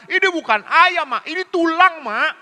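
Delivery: put-on high, loud child complaint; imitating a child refusing the chicken; whiny child. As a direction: protest like a fussy kid.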